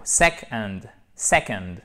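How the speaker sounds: SECOND with a strong SEC and light falling "ond"; deliberate teacher's model of SECOND; stress on SEC. Shown as a demonstration. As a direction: stress the first syllable of "second". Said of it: "on a notre accent tonique ici".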